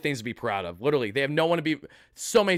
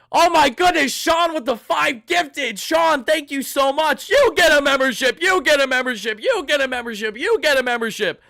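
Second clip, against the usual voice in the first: shrieking, much higher and louder giveaway voice; Oprah impression; 11 semitones higher, 7 dB louder than usual. Streamer thanking gifters as Oprah, shrieking. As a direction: hype it up like a talk-show host giving away cars. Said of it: "Doing my best Oprah impression".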